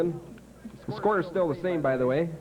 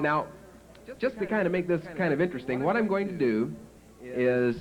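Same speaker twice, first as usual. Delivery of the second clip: raised, brisk schoolteacher addressing her class; teacher voice; 3 semitones higher than usual. Retold or imitated. A schoolteacher announces a reward to her class, higher and quicker. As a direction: play the chipper teacher making an offer.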